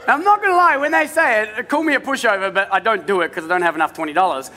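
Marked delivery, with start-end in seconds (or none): 0.1-2.5 laughing. Real, not acted. Pastor owning up to the congregation, laughing. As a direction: confess it while laughing.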